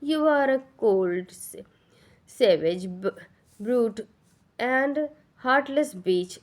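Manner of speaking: slow, spat-out insults, each word its own blow; furious outburst. A narrator's reading. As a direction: lash out at her in rage. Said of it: "غیظ سے اس پر چلا پڑی". (غیظ میں چلا کر گالی)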